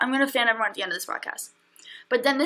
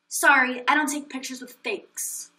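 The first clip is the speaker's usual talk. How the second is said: mild dismissive snub. Retold or imitated. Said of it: "I'm gonna show you".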